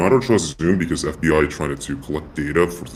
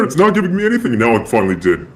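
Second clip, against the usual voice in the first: vocoder-processed voice; voice changer; 8 semitones higher, 4 dB louder than usual. Real, not acted. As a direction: talk through a voice changer. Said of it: "have you got a vocoder, or is that your actual voice".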